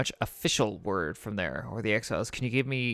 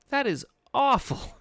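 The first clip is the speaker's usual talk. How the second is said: shocked cry, much higher and slow; horrified outcry; 13 semitones higher, 4 dB louder, slower than usual. Acted. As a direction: recoil in horror at the story's ending. Hearing a grim children's tale.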